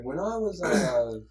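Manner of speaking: soft, meandering teacher imitation; soothing teacher. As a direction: ramble gently like a soothing teacher. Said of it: "he has the most soothing voice".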